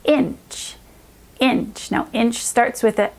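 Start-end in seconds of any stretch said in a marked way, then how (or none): 0.0-0.8 "inch" said slowly and clearly; slow model word. Shown as a demonstration. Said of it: "the word". 1.4-1.9 "inch" said slowly and clearly; slow model word. Shown as a demonstration. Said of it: "the word".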